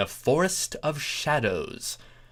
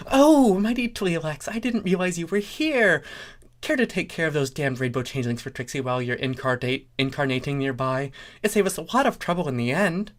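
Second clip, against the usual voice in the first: Trixie to Tleolax; 5 semitones higher than usual. Acted. Trixie addresses god.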